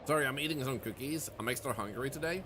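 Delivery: chewing while talking; mouth full. Real, not acted. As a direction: mouth full of cookie, quiet. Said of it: "I'm a little bit quiet because I'm chewing".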